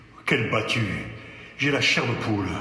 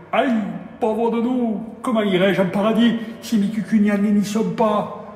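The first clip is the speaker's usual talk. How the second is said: high, louder despairing plea; grieving wail, higher and louder; loud lament; 7 semitones higher, 4 dB louder than usual. Acted. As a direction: cry out in grief. Priest laments lost parishioners.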